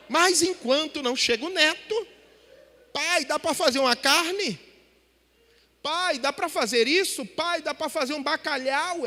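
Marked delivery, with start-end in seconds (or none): 2.9-9.1 spoiled daughter asking. Retold or imitated. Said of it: "É assim".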